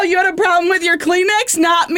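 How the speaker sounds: high, singsong mock-innocent voice; hammed-up high-pitched teasing; mock innocence. Acting out mock innocence about Kleenex.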